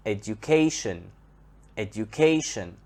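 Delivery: "education" with CA stressed, then falling; stress before the suffix. Shown as a demonstration. Teacher changes verb into noun, CA stressed in "education". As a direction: lean on CA in "education": edu-CA-tion. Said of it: "On the second syllable".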